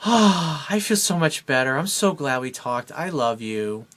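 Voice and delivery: a mild hint of the girlfriend's relief; relieved girlfriend. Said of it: "she'll go".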